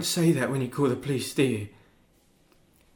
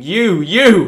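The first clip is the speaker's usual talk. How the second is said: louder mock scream; retold scream; 5 semitones higher, 14 dB louder than usual. Son retells mum screaming at him. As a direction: accuse him. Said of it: "she was screaming".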